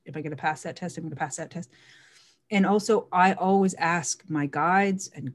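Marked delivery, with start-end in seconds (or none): 0.1-1.0 a quiet, unsure wondering; doubtful self-question. Shown as a demonstration. Coaching the listener, a quiet doubtful question. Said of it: "look at it like that". 1.0-1.7 quiet, sure affirmation; confident self-talk. Shown as a demonstration. Coaching the listener, a quiet confident affirmation. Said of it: "look at it like that".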